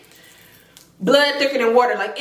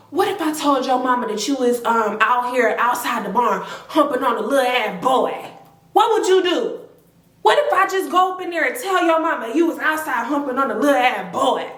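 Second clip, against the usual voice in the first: scolding threat. Retold or imitated. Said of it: "She said".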